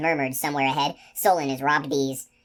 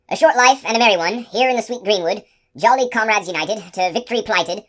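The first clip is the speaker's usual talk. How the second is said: loud, higher sing-song password; raised voice; 6 semitones higher, 6 dB louder than usual. A narrator's reading. Giant calling the password to the sentry, loud and higher. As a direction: bellow the password up into the trees. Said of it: "raised his voice and answered".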